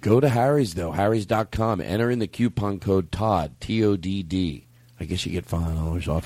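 casual ad read. Acted. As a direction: read it like a sponsor spot. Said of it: "the way I do that when I read that".

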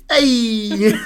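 light repeat of the shout; mock shout. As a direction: toss off the yell. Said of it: "It was just like a".

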